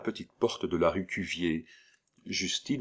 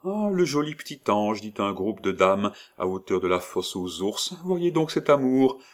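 admiring ladies; 3 semitones higher than usual. Acted. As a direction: coo over the child.

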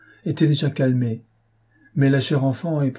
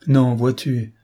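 despairing; 3 dB louder, slower than usual. Acted. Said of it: "avec un redoublement de désespoir".

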